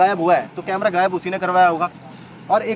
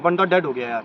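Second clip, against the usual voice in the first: casual calm; 4 semitones lower than usual. Retold or imitated. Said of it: "इतने आराम से बोल रहा है".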